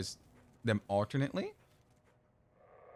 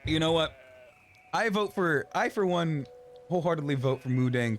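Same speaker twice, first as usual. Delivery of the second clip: mock rally cry; 5 semitones higher than usual. Mock campaign endorsement.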